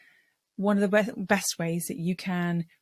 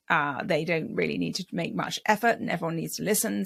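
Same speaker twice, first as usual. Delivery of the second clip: vocal fry. Shown as a demonstration. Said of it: "So it sort of sounds like this".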